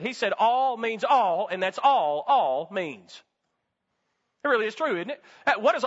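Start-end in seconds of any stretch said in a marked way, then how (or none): 0.4-3.2 slow, drawn-out country preacher quote; a slow preacher's maxim with a hard fall on "all means"; old country preacher. Retold or imitated. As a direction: lean on each "all" like a folksy old preacher. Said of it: "like the old country preacher once said".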